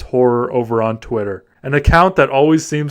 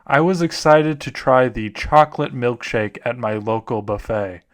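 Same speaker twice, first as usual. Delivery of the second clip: understated spooky narration; story narration. Acted. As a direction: narrate it gravely, slowing at the punchline. Reads horror stories aloud.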